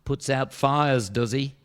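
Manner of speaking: very slow, deadpan calm; unbothered, drawn out; cool as a cucumber. Acted. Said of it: "cool as a cucumber".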